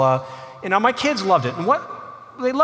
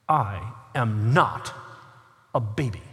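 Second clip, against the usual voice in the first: put-on indignant little girl; 6 semitones lower, 4 dB quieter than usual. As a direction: put the big waiter firmly in his place. Offended five-year-old corrects the waiter.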